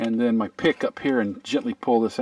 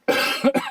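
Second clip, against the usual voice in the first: coughing fit. Real, not acted. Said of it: "I got swallowed a bug".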